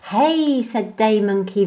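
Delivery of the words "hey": high startled call; surprised hey. A narrator's reading. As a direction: spot something odd. Day Monkey exclaims.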